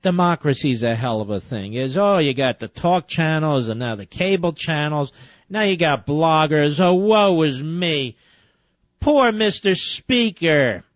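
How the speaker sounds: slow, syrupy mock sympathy; mock pity. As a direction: pity him in mock tones, slowly. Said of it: "I'm waiting for him to cry".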